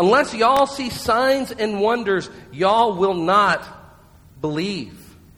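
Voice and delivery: drawling Southern US accent. Rereading Jesus's reply to the father from the passage, in a Southern accent. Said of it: "read it like a southerner".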